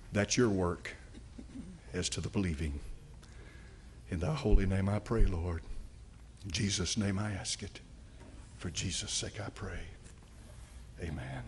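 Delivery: closing prayer. Real, not acted. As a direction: bring the prayer down to a low amen. Closes sermon with prayer.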